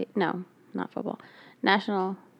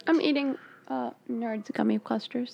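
chewing while talking; 4 semitones higher, 3 dB quieter than usual. Real, not acted. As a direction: mouth full of candy. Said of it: "so excuse my chewing".

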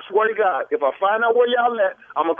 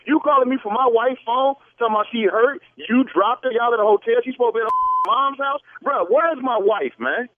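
angry demand; 3 semitones higher than usual. Real, not acted. Husband demands his wife.

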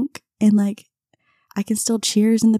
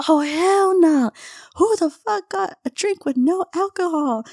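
outraged friend; 10 semitones higher than usual. Retold or imitated. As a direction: play the shocked, indignant friend. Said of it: "She's like".

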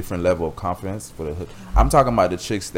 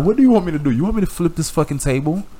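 exasperated outburst; 10 semitones higher than usual. Retold or imitated. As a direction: throw up your hands in frustration. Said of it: "And I'm like".

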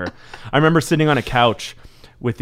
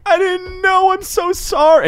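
put-on much higher apologetic old lady; flustered grandma voice; 4 dB louder, slower than usual. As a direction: squeak out a sorry apology.

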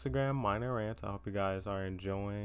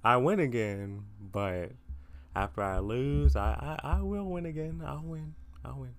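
cringy pep talk; 3 semitones higher than usual. Acted. Encouraging listeners after losing, self-hyping chant fading out. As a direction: hype yourself up, then trail off. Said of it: "that was so cringy".

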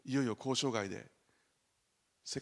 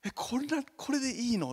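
much higher, startled question; surprised; 12 semitones higher, 4 dB louder than usual. Retold or imitated. Young wife stunned by the playful church play, surprised. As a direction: sound like a girl caught off guard. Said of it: "妻びっくりしたそうです".

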